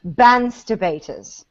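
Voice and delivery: slow British bansterbaters; British accent. Shown as a demonstration. Leading everyone to say it, slow British bansterbaters. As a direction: lead the group in bansterbaters, slowly. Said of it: "Everyone together".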